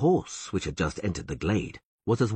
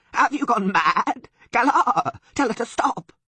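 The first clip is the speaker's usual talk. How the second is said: much higher, louder frightened plea; bleating plea; 7 dB louder than usual. A narrator's reading. Sylvan begging Taruviel to leave him, high frightened bleat. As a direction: beg her to stop. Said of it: "bleated the Sylvan".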